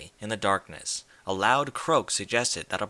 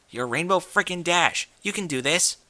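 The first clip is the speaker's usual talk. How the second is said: pumping herself up; 7 semitones higher than usual. Acted. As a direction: hype yourself up before the door.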